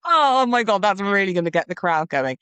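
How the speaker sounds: mocking vow writers chasing laughs, mock excited. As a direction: ham up a crowd-pleaser's glee. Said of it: "should you be like".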